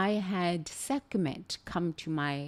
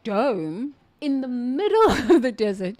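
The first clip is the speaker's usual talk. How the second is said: excited; 5 semitones higher, 7 dB louder than usual. Real, not acted. Describing the desert dome.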